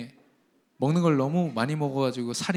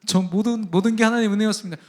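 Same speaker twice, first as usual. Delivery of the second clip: higher, fast, gushing thanks to God; grateful prayer; 6 semitones higher than usual. Retold or imitated. Pastor imitating a believer thanking God, gushing prayer. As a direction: pour out the thanks like an eager believer. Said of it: "하나님께 고백합니다".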